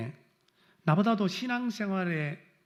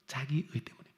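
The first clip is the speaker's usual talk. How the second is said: whisper; 4 semitones lower, 8 dB quieter than usual. Shown as a demonstration. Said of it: "whispered repeat".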